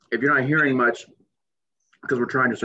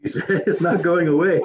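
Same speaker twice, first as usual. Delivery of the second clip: slow laugh through the pain; 7 semitones higher, slower than usual. Real, not acted. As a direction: laugh helplessly at the burn. Both suffering from hot food.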